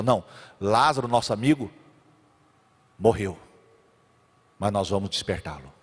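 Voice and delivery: low, soft and calm; gentle Jesus. Retold or imitated. (Jesus explicando com calma, voz baixa)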